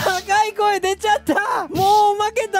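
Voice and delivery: high squeaky helium voice; chipmunk-high, half laughing. Real, not acted. (ヘリウムで高くなった声)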